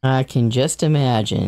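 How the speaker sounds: low, unimpressed delivery; deadpan excitement. Real, not acted. Player answers promise of something magical, deadpan. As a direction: claim interest with no excitement in the voice. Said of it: "You sound so excited".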